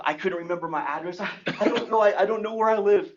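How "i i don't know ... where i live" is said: put-on flustered child. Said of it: "Okay, calm down".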